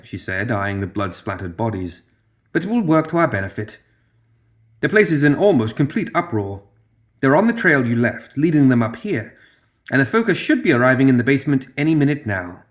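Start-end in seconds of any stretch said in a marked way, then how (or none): 2.5-12.6 a hint of a higher, poised schemer; Zoraida, lightly voiced. Zoraida telling Pandora and Lilith it's time, lightly voiced schemer. Zoraida speaks to her allies.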